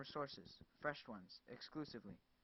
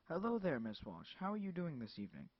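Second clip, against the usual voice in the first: smooth caller; 4 semitones higher, 4 dB louder than usual. Acted. Bertram's smooth phone voice.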